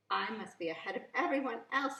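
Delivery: thinking to himself. Acted. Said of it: "he thought to himself".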